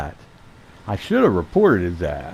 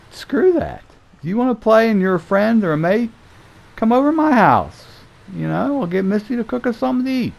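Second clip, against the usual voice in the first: fired-up rant; 11 semitones higher, faster than usual. Retold or imitated. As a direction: rant it out, all worked up and fast. His retold rant against paying.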